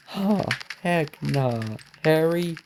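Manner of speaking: slow, high "heck nah" in disbelief; can't believe it, drawn out; disbelieving. Real, not acted. Disbelief at reveal.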